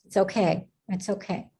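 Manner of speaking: calm someone who is tearful; gentle comfort. Real, not acted. Host comforts a crying panelist, gently.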